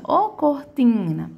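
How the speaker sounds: slow call of "ô cortina" with a long TIN; calling, stretched TIN. Shown as a demonstration. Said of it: "Chama tim porque tá junto do N". (chamando "ô cortina", arrastando o TIN)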